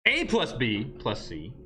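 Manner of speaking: slow, "A plus B" bunched, pause before "plus C"; grouped A plus B. Shown as a demonstration. Teacher showing order by voice, stress on "A plus B". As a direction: punch "A plus B" as one unit. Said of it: "you instantly become Italian".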